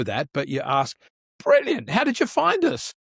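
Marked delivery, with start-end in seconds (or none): 1.4-2.9 bright, high welcoming greeter voice; pitched-up church greeter welcome; cheery greeter. Pretend. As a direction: greet a newcomer with big enthusiasm. Greeter role-plays welcoming guest.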